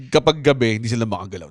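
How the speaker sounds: ordinary talk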